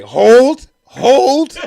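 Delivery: loud, high calling out; imitated heckler. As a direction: call it out like a woman in the front row. Front-row lady heckles, imitated.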